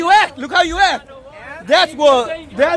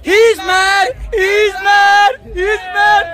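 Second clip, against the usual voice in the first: higher-pitched, insistent repeated jeer; taunting; 4 semitones higher, slower than usual. Real, not acted. Man needling an angry stranger on camera, taunting. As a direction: goad them, pushing the pitch up.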